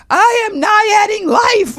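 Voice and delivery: very high, slow triumphant yell; ecstatic shout. Retold or imitated. Host yelling her new motto on air. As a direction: shout it to the rooftops. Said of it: "I said".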